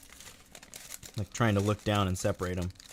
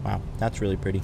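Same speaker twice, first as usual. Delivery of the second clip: mouth full. Real, not acted. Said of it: "trying not to talk with my mouth full".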